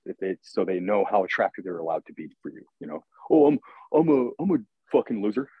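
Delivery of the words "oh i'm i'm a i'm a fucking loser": loud, jokey self-put-down; mock self-deprecating. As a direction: toss it off as a joke. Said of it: "I'm moving on".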